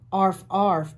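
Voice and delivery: put-on a kid sister's teasing arf arf; barking. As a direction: bark it like a little dog. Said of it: "barked Juju Bee".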